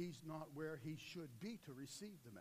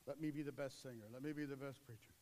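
mocking silly prayer; 3 semitones lower than usual. Mocking silly self-centred prayers.

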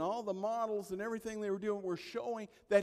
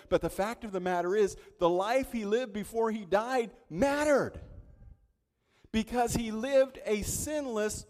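loud, rising sermon push; preaching at full force; 4 semitones higher, 7 dB louder than usual. Acted. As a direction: drive it home to the congregation.

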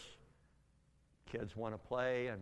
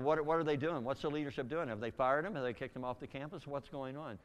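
worked up. Retold or imitated. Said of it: "I'm really getting worked up now".

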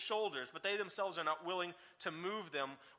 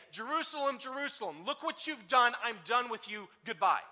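mock dismissal; 5 dB louder than usual. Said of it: "He does not then say".

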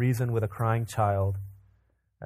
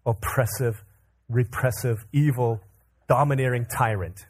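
put-on low, measured, pompous toddler speech; put-on deep voice, weighty pauses; mock deepest voice; 3 semitones lower than usual. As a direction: intone a grand accusation in a deep voice. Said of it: "in his deepest voice".

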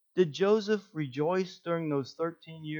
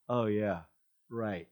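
low, dry sarcastic mutter; sarcastic Joseph; 4 semitones lower than usual. Pretend. Imagined Joseph answers the advice, sarcastic and low. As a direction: scoff at the advice from the pit. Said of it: "I was just imagining".

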